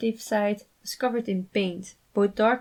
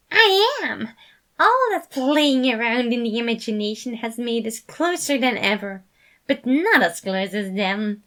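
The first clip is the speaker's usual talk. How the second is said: high, loud burst settling to louder glee; giggly excitement; 3 semitones higher, 6 dB louder than usual. A narrator's reading. Remus boasting to the sides, gleeful and louder. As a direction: bubble over with mischief. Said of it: "he giggled".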